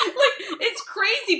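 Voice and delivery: loud high laughter then words; laughing. Real, not acted. Cracking up with the host about her own worrying. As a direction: burst out laughing at yourself.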